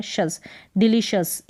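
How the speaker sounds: "शस" first, then whole "डिलीशियस" ending in shus; pronunciation demo. Shown as a demonstration. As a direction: end "डिलीशियस" on a short shus. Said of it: "इस तरीके से". (शस, फिर डिलीशियस का उच्चारण)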